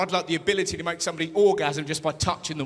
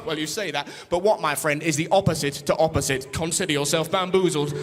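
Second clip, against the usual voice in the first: low smug riddle; lightly lower sly riddler; 4 semitones lower than usual. Pretend. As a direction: tease the mugger with a low sly voice. Mock riddling reply to mugger.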